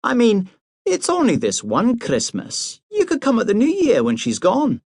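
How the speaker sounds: pitched high as a coaxing Highland mother; mother pleading with her son to skip Christmas, high and coaxing. A narrator's reading. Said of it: "pleaded his mother".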